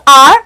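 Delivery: R with no H sound, as in hour; exact pronunciation. Shown as a demonstration. Teacher shows how hour sounds, exact pronunciation R. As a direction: say R starting straight on the vowel. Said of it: "the exact pronunciation is".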